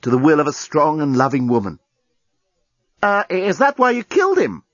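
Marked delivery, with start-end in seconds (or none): 3.0-4.6 high-pitched, hesitant asking; childish question. A narrator's reading. Captive asks journalist about the killing, childishly hesitant. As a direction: ask timidly, feeling like a child. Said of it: "Lucy felt surprisingly childish asking the question".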